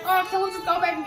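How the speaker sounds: high pleading whine, imitating herself; mock whiny plea. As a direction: beg to go back like a sulking kid. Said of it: "I was so mad".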